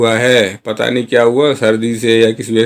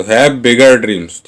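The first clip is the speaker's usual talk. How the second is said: slow model sentence; much slower than usual. Shown as a demonstration. Teacher modelling the English line for Hindi learners, very slow. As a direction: say each word slowly and clearly. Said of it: "teacher models English sentence".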